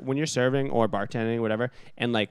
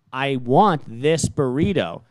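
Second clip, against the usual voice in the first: WANT and THIS drawn out, slow and louder; insistent customer; 5 dB louder, much slower than usual. Retold or imitated. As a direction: retell a customer digging in, word by word. Customer repeats himself insistently.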